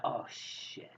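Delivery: hushed alarm. Acted. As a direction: whisper it under your breath. Carrie spots people coming out.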